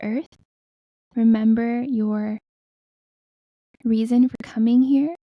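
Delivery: spaced-out phrases, measured meditation voice; guided meditation. Acted. Healer guiding listeners to breathe into the earth, guided meditation.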